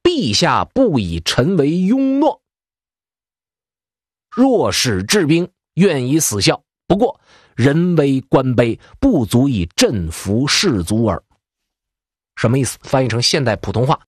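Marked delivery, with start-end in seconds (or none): 0.0-11.2 slow, measured classical declaration; slow formal oath-like reading; firm resolve. Retold or imitated. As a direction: lay it down slowly like a sworn pledge. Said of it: "直接拍板儿".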